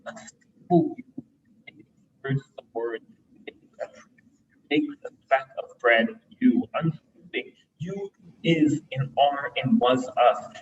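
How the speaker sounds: deliberate recitation, broken into short phrases; poem reading. Acted. Poet reading a poem written at Mass, measured recitation. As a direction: weigh each image, pausing between phrases.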